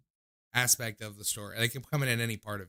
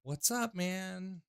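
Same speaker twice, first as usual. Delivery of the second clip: much higher, rising hype-man hello; big upbeat rising "What's up, man?"; hyped greeting; 8 semitones higher, 8 dB quieter, much slower than usual. Real, not acted. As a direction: greet him like a pumped radio host. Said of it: "I don't know if Heather was the first thing".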